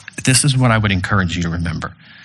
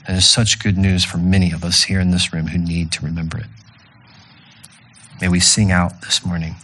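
prayer; 3 semitones lower than usual. Acted. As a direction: pray over the congregation humbly. Closing prayer.

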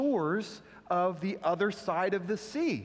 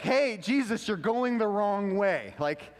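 mock alarm. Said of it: "I'd be like".

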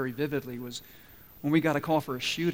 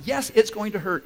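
firm, louder yes; blunt medic answer, louder; 5 semitones higher, 7 dB louder than usual. Retold or imitated. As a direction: state it flat out. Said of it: "And I said".

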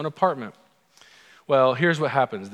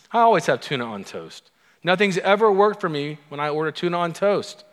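louder, higher George-style grumble, lightly acted; fed-up complaining; 4 semitones higher, 4 dB louder than usual. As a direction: complain like a man who's had it. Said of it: "he's basically complaining that life isn't working".

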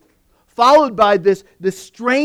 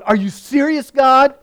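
higher, louder incredulous complaint; exasperated disbelief; 5 semitones higher, 4 dB louder than usual. Retold or imitated. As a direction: act out Moses scolding God in disbelief. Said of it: "Moses is going".

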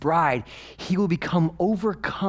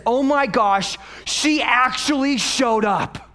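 higher, louder laughing shout of disbelief; 11 semitones higher, 6 dB louder, slower than usual. Retold or imitated. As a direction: blurt it out laughing in amazed relief. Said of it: "he says".

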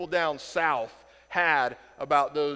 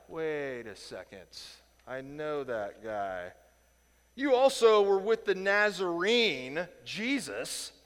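put-on accusing servant girl; slower than usual. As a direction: point him out, suspicious. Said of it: "that's the way she put it".

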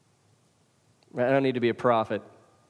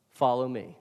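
gentle Jesus; 3 semitones lower than usual. Retold or imitated. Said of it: "Jesus very gently is saying".

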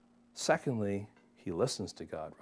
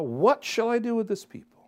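a touch of Moses' desperation, pitched up; desperate Moses; 9 semitones higher than usual. Retold or imitated. Preacher voicing Moses crying out to God, mildly desperate. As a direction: let Moses' helplessness lift the question. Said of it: "give up in desperation".

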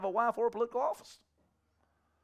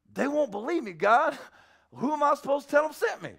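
higher, louder mock complaint; imitated flustered objection; whining protest; 8 semitones higher, 5 dB louder than usual. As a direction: plead your case, exasperated. Moses protesting to God, acted.

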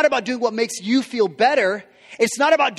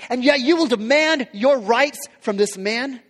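indignant rebuke; 3 semitones higher than usual. Retold or imitated. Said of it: "This king says".

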